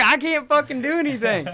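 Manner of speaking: high-pitched panicky wail, toned down for retelling; retold panicked scream. Telling friend about the chainsaw room, mock-screamed panic. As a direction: re-enact helpless screaming in a high strained voice. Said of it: "just screaming, dude".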